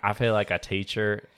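put-on Southern accent. Teacher defaulting to a Southern accent, amateurishly put on. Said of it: "You have a horrible Southern".

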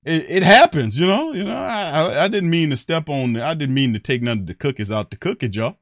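high, loud, stammering mock protest; mock excuse-maker. Mocking player as cookie thief, high pleading excuse. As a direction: plead innocence in an exaggerated high voice. Acts child's excuse for mistakes.

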